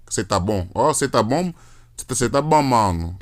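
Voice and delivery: casual Brazilian greeting, "Você" cut to "cê"; colloquial contraction. Shown as a demonstration. Imitating Brazilians greeting a friend, "Você" shortened to "cê". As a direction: run "Você tá bom" together as a casual "cê tá bom". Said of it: "they'll say that type of shit".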